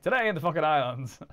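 loud, announcing news anchor read; newscaster. Retold or imitated. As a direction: boom it out like a TV anchor. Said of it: "when newscasters say the Falkland Islands quickly".

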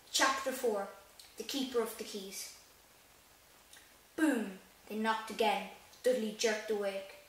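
reading the book aloud, evenly; steady storybook narration; story reading. Acted. Starts reading chapter aloud.

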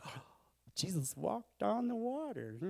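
slow, high, loud, over-the-top comic gush; Chris Farley impression. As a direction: ham it up like a manic comedian. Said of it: "that's my Chris Farley impression".

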